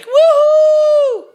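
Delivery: high squeaky video game cheer; Wario voice. Retold or imitated. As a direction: shriek it like a cartoon plumber. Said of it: "he would be like".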